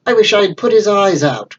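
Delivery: villain's cry. Acted. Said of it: "cried Blind Pew".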